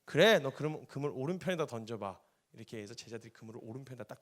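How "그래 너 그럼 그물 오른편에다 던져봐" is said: loud call out; loud command to cast; Jesus instructing. Retold or imitated. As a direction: shout an instruction across. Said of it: "이렇게 대답을 했어요".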